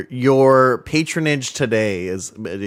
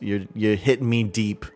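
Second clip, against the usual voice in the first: put-on slight Irish accent; 3 semitones higher than usual. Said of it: "I went slightly Irish there".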